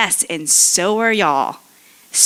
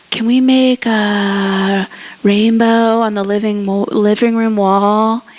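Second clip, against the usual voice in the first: lightly voiced eager child, louder; imitating kids; 2 semitones higher, 5 dB louder than usual. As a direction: call out like a kid asking permission. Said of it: "the kids come in and they're like".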